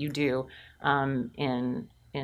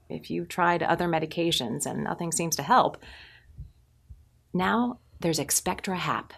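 gentle pharma ad read; warm, comforting. Acted. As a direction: comfort them without pity. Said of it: "warm, comforting, but without pity".

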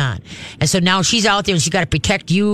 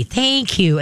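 calm thank you; 5 semitones higher than usual. Shown as a demonstration. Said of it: "Okay, just calmly".

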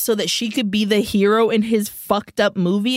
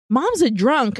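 surprised; 4 semitones higher than usual. Retold or imitated. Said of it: "which I was like".

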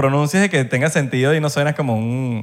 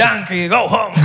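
mock racist jeer; 5 semitones higher, much slower than usual. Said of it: "súper racista".

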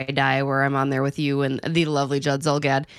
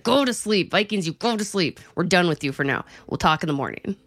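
a light hint of a firm parent; sending it to bed like a tired mom; mock parent bedtime order; 3 semitones higher than usual. Mom sending the Vikings to bed, lightly stern. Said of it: "That's what I say to my children every night".

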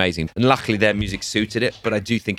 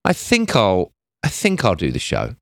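offhand; 2 semitones higher than usual. Retold or imitated. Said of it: "And she went".

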